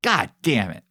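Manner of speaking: slow, loud angry swearing; angry cursing. Real, not acted. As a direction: spit out the curse in frustration. Frustrated at game result.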